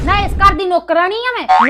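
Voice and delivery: loud, slow, offended retort; indignant outburst. Acted. Daughter-in-law snaps at her mother-in-law, loud and indignant. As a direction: throw the question back at her, hurt and angry.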